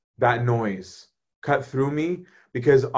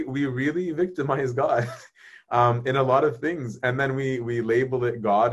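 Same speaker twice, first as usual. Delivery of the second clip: ordinary talk, nothing marked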